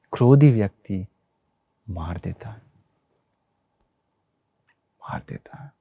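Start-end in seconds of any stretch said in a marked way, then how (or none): 5.0-5.7 whisper. Shown as a demonstration. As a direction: whisper मार देता है under the breath. Speaker repeats the key phrase, hushed. (मार देता है फुसफुसाकर)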